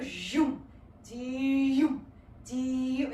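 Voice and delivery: low zooming vocal sound; weird vocalization. Shown as a demonstration. Teacher voicing the motion's dynamic as a low zoom. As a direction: voice the zoom of the move. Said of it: "like my weird vocalizations".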